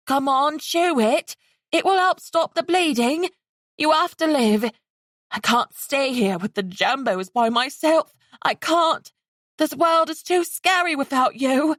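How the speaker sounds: high frightened plea; pleading. Acted. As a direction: beg her to live. Frightened girl pleading with dying.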